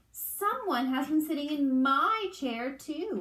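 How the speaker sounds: mild wail. Acted. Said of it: "wailed in her medium-sized voice".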